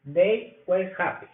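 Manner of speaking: They were happy. slow, falling; slow model answer. Shown as a demonstration. Teacher models the yes answer slowly. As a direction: say the answer slowly and let it fall. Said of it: "Posibles respuestas".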